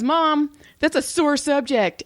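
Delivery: high, slow protest to mom; imitating an offended son; mock offended kid. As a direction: draw it out, wounded. Retold son's offended reply.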